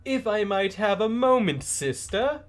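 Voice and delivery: a light, well-mannered ask; polite stranger. Acted.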